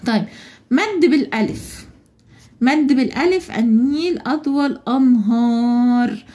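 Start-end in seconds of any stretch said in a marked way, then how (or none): 3.6-6.2 أنهار with the alef drawn out, slow; long alef. Shown as a demonstration. Teacher to class, showing the long alef in أنهار. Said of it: "أنا مديت الألف في كلمة أنهار".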